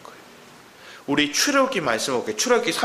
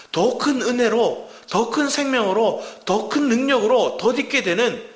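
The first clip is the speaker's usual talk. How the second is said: slow, rising preacher's build; fervent preaching; 7 semitones higher than usual. Acted. Pastor building to a climax before the congregation, fervent and rising. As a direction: preach each phrase higher and stronger.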